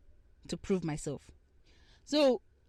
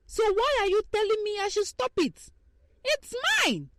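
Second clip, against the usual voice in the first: retold indignation; 8 semitones higher than usual. Retold heated reply to guy.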